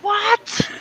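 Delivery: hearing the gamer's remark, high and stunned; incredulous what. Retold or imitated. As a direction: shoot it up high in disbelief. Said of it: "I'm like".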